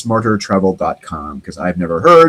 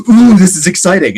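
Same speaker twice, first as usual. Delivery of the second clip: mock excitement; 7 semitones higher, 5 dB louder than usual. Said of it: "they were like".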